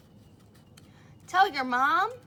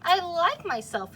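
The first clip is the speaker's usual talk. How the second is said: proud declaration; 7 semitones higher, 8 dB louder than usual. Acted. Pokey's proud realization.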